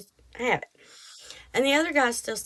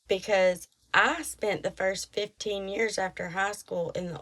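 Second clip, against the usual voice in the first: sugar sweet. Retold or imitated. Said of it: "sugar dripping sweet as can be".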